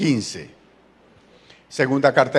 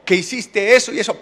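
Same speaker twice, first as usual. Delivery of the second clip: higher, exclaiming mock-mother praise; praising mother; 5 semitones higher than usual. Mother praising her child before a reproach, mock approval. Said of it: "cuando la mamá le dice".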